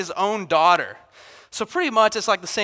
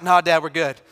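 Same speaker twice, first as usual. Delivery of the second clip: quick, laughing "we're good" retreat; nervous giggling cover-up; backpedaling kid; 3 dB louder than usual. Retold or imitated. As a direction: caught instigator hurrying to drop the matter, laughing. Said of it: "that person ... is like".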